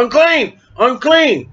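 high calling cry of a leper; crying unclean. Retold or imitated. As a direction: call out the warning, unclean.

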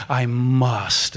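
"I must" pressed with urgency; urgent "I must". Shown as a demonstration. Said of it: "like, urgent".

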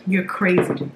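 chewing. Real, not acted. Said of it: "Sorry if I'm chewing funny".

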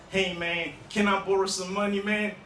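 put-on casual American-accented request; lightly put-on American accent. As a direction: ask for a loan in an American accent. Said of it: "speaking in an American accent".

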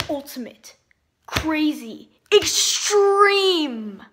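punched hype word; hyped up. Acted. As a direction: sell it big. Hyped video intro.

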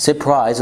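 surprise said as suh-prise, first R dropped; the common surprise, first R left out; surprise without first R. Shown as a demonstration. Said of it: "surprise مش surprise".

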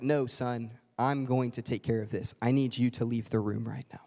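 stern father sending son out; firm father. Retold or imitated. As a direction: calmly take charge as the father. Dad voiced again firm.

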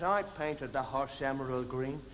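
low, soft, slow menace; deep threatening big man; giant's voice. Acted.

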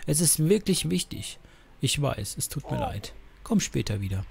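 lightly acted story dialogue, changing tone between speakers; expressive dialogue reading; game dialogue read-aloud. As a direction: read the characters' exchange like an audio story.

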